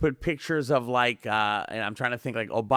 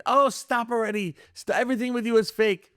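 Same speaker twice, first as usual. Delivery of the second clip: exasperated mom; 9 semitones higher than usual. Retold or imitated. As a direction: roll your eyes at a conspiracy son. Mom scolding him.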